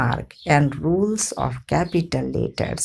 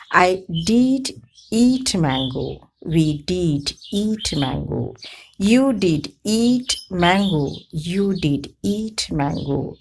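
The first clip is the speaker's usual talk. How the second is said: did said with weight in each example; stress on did. Shown as a demonstration. Teacher showing emphatic did to students. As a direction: lean on did to emphasize the verb. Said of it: "When the verb is emphasized".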